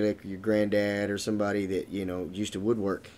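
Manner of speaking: cigar pressed to upper lip; speaking with cigar at nose; talking while sniffing cigar. Real, not acted. Seen 0: Cigar held against upper lip under nose, sniffing; briefly lowered 13.9.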